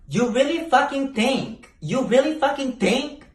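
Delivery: high mocking incredulity; scoffing disbelief. Real, not acted. She scoffs at the cops questioning her cousin, high. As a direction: sneer it high.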